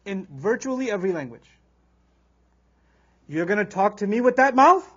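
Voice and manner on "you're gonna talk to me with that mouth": louder, furious scolding; angry rebuke. Shown as a demonstration. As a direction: scold someone for their words, louder. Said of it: "how you speak when you're extremely angry".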